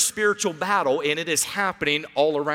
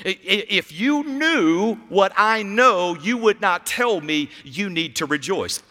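mock defensive inner voice. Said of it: "That inside response is".

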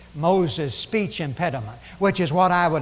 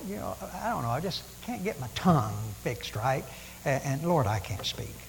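softer, lower, halting Moses; timid Moses; 3 semitones lower, 5 dB quieter than usual. Acted. Moses pleading with God that he can't speak, soft and halting. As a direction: mumble the excuses like a shy stammerer.

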